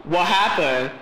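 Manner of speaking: lightly imitated quirky title read; a hint of someone's weird way of saying it. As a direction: give the title a slightly odd delivery. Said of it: "says it in a weird voice".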